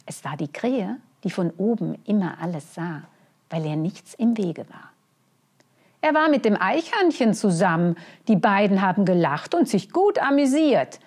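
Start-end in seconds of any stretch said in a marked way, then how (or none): 6.0-11.0 loud, chatty crow. Acted. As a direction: gossip like a nosy crow. Crow reports gossip.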